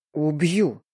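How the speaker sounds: lightly rumbling menace; rumbled threat. A narrator's reading. Boss threatens the unknown lover, a restrained rumble. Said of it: "пророкотал".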